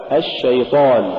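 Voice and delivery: الشيطان with a measured sh; moderately held sh in الشيطان; balanced shin. Shown as a demonstration. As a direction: say الشيطان without dragging the sh. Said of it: "الصواب".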